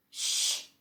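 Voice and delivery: a soft breathy shush; whispered shush. A narrator's reading. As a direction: hush the boy gently. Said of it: "whispered Grandpa Joe".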